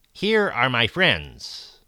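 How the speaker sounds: a hint of a proud host; slow proud announcement. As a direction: announce it slowly and grandly. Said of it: "pronounced Radius".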